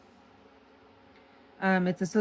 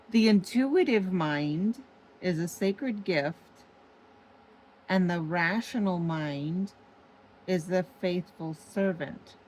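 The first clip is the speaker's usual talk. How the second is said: deliberate re-reading. Shown as a demonstration. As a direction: read it out deliberately, phrase by phrase, letting "intuitive" stand out. Rereads the quote for emphasis.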